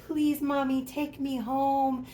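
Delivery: a hint of a sad little doll begging; mock doll plea to Mommy; lightly voiced pleading doll. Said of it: "He was looking at me like".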